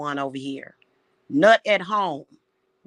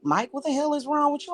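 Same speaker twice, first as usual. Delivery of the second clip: higher, half-mocking retelling of own reply; mock exasperated self; 9 semitones higher, faster than usual. Retelling the call to Mike, pitched-up exasperated reply. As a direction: replay how you snapped at him, pitched up. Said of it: "And I was like".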